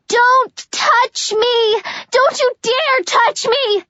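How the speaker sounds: high, slow furious warning. Acted. Juliet shouting at Warner not to touch her, furious. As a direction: spit it at him, enraged.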